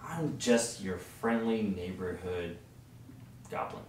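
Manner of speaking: friendly goblin. Acted. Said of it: "He says".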